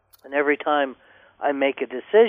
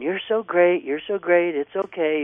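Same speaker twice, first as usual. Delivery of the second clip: mock cooing praise, pitched higher; 4 semitones higher than usual. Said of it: "just like going".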